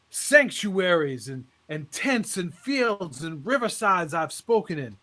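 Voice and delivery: lightly voiced preacher building up. Preacher addressing the congregation.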